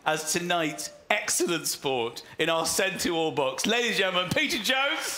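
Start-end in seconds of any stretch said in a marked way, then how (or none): 3.7-5.2 announcer introduction. Real, not acted. Host introduces guest.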